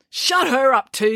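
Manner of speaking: drawn-out irritable command; snapped. A narrator's reading. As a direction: order it with a snap. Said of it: "snapped Georgia".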